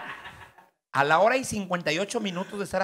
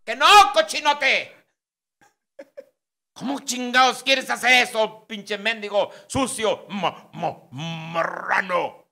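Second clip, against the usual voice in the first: much higher, louder and slow indignant yell; outraged refusal; 7 semitones higher, 7 dB louder, much slower than usual. Acted. Wife refuses her husband's request, yelling in outrage. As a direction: drag out the insults in disgust.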